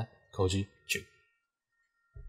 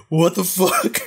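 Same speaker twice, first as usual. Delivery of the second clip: higher and louder, a startled shout; mock yell of disbelief; loud shocked outburst; 10 semitones higher, 7 dB louder, slower than usual. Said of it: "And Moriya's like".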